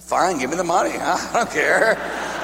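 laughing give-in. Retold or imitated. Punchline giving in to grandma.

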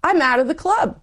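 high mock wail of I'm out of the club; mock despairing wail. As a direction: voice leaps high on club, rising like a cry. Retold panic about leaving church.

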